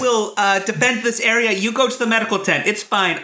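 in-character hero. Acted. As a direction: take charge in a lifted character voice. Player speaks in character to soldiers.

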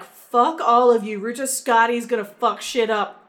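mock defiance, punched opening and exit; defiant quote. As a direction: act out a fed-up character storming off. Voices the bird's defiant exit.

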